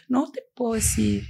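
upset, reluctant refusal; retold distressed refusal. Shaken girl refusing to tell her worried friend, distressed. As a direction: re-enact being unable to tell. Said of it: "literal, ahorita lo dije igual".

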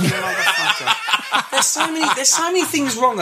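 high laughing outrage; laughing disbelief. Real, not acted. Finds out he was tricked.

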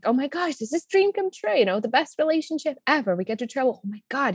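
giddy excitement. Retold or imitated. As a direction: replay the thrill of new love, lightly hammed. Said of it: "we were like".

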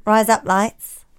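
slow, deliberate Australian accent. Shown as a demonstration. Testing a listener's accent hack, Australian accent. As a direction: try out an Australian twang slowly. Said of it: "you'll sound like an Australian".

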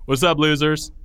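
swaggering, loud greeting; cocky bully. Acted. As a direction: strut in like a bully.

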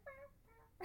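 very high, soft cat meow; imitated meow. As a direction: mimic the cat answering back. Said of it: "he's like".

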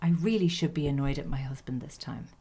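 low muttered aside under the breath; muttering. Retold or imitated. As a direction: mutter it quietly to yourself. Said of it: "Florence apparently muttered".

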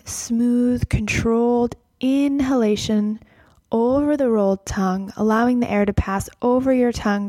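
guided meditation. Acted. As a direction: guide them gently into the breath. Leads guided breath practice.

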